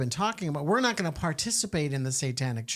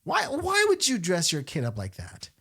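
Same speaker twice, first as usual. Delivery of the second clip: imitating Mother Angelica; 4 semitones higher than usual. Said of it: "I think she would say something like".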